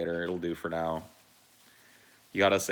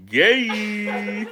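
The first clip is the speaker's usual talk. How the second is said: flamboyant high squeal; 8 dB louder than usual. Acted. Mock reaction to pink utensils.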